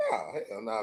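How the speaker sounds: laughing it off. Real, not acted. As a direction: scoff and laugh through it. Laughing at the question.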